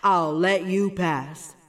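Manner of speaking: low growling troll. A narrator's reading. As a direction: grumble it like a troll. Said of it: "said the troll".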